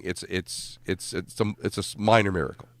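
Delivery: ordinary talk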